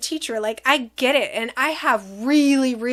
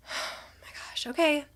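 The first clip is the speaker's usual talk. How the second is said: hushed whisper, bracing oneself; whispered dismay; 3 semitones higher, 8 dB quieter than usual. Retold or imitated. Mother bracing herself to roll down the window, whispered dismay. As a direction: whisper it privately, reluctantly giving in.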